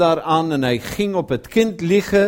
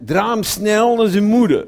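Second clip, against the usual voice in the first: louder, pressing command to the servant; urgent order; 5 semitones higher, 5 dB louder than usual. Retold or imitated. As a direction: hurry him off to the mother. Father sends servant urgently.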